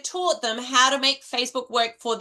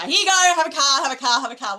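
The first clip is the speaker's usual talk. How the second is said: a lightly voiced, louder Oprah handing out cars; hammed-up game-show generosity, fading out; Oprah giveaway; 4 dB louder, faster than usual. Coach imitates Oprah giving away a car, mildly hammed-up. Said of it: "Wasn't that an Oprah moment".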